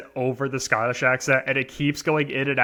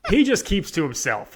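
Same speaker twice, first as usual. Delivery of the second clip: higher, through a laugh; amused, laugh breaking into the words; 4 semitones higher than usual. Real, not acted. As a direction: say it while laughing. Amused repeat after breaking into laughter.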